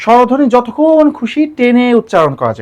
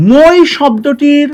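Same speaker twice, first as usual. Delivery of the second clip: slow emphasis; 3 semitones higher, much slower than usual. Shown as a demonstration. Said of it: "teacher slows for emphasis".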